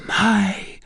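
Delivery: high, halting exclamation; overcome cry. A narrator's reading. Gypsy recognises her lost mother, overcome cry. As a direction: cry out, a pause between the words. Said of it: "said the gypsy".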